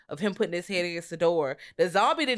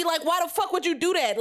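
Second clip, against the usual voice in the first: mock rant; 9 semitones higher than usual. Ranting at the movie character.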